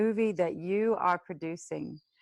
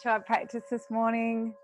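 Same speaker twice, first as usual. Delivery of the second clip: guided meditation. Acted. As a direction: lead the class gently into the breath. Teacher leads breathing meditation.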